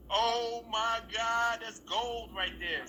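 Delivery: high, slow, stretched-out amazement; delighted awe. Retold or imitated. Actor hearing the driver's perfect line, slow high delight. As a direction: savour the find, drawing each word out high.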